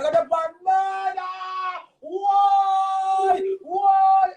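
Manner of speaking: high, loud shouted why; angry shouted demand; furious shout. Real, not acted. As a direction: yell it out in outrage. Heated rant about the police.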